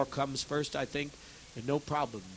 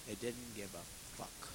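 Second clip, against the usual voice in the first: bitter despair; 5 semitones lower, 15 dB quieter, slower than usual. Real, not acted. Despairing over idle workers.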